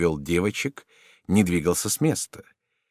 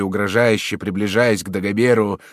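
ordinary delivery

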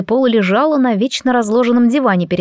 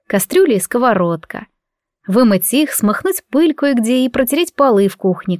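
ordinary delivery

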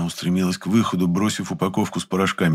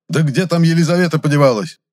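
high, loud bark; 10 semitones higher, 7 dB louder than usual. A narrator's reading. Chemist barking for the missing assistant. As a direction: bark it at the back room. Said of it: "опять рявкнул".

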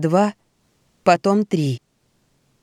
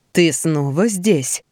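luring spirit whisper; much slower than usual. Acted. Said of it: "произнёс вкрадчивый голос".

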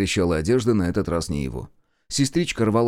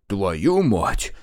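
gasping curse. A narrator's reading. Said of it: "ахнул Марков".

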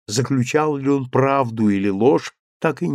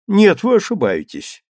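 твёрдо; 7 semitones higher, 4 dB louder than usual. A narrator's reading. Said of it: "твёрдо сказала женщина".

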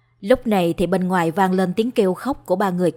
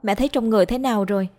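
higher voice dissolving into sobs; bursting into tears; 4 semitones higher than usual. A narrator's reading. Daughter embraces her mother after a month of silence, bursting into tears. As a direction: call to mother, then break down crying. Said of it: "òa khóc, ôm chầm lấy bà".

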